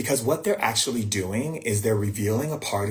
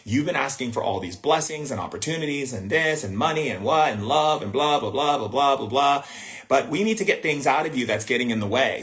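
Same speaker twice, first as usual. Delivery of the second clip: higher, lively voice of the universe replying; higher and animated, as the universe talking back; the universe speaking; 4 semitones higher than usual. Acted. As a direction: play the universe answering a long wish list. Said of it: "Because the universe goes".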